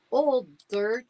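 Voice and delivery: high, doubtful repeat; incredulous echo. Acted. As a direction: question the odd answer. Boy repeats in disbelief.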